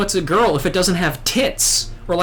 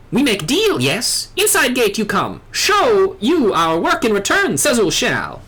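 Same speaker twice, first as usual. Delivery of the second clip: lightly voiced squawking bird-man; a hint of a proud little bird creature; Ixal bird voice. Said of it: "do all the Ixal voices like this".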